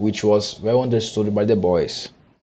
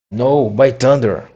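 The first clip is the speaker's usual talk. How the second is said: defiant cry; 3 semitones higher, 4 dB louder than usual. Acted. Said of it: "Starkey cried".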